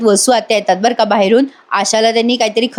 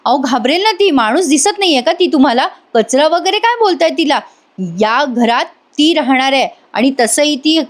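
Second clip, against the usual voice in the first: higher-pitched, mildly indignant protest; annoyed retort; 4 semitones higher than usual. Retold or imitated. Nandini objecting to the aunt's language, annoyed retort. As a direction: imitate a woman standing up for a child. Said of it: "Nandini चिडते आणि म्हणते".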